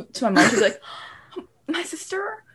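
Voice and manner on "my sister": high, whiny tattletale voice, half laughing; tattling sister. Retold or imitated. Sister running to tell mom on her sibling, high mock wail. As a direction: imitate a sibling wailing to a parent.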